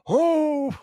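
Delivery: high, sharp exclamation of realization; sudden surprise. Real, not acted. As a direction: it suddenly clicks. Sudden realization about trailer.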